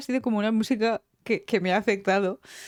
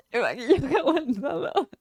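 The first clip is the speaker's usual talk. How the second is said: aguantado laughed, teary and higher; laughing through tears; 4 semitones higher than usual. Real, not acted. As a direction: laugh while still teary. (riendo entre lágrimas)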